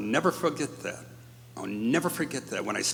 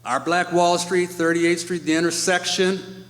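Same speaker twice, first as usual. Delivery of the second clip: high, louder, held tones of real emotion; choked up; 6 semitones higher, 3 dB louder than usual. Real, not acted. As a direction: push through the lump in your throat. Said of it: "right now I'm getting choked up about it".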